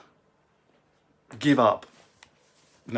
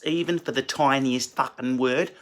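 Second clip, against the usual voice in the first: put-on Australian accent. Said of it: "speaking like that are Australians".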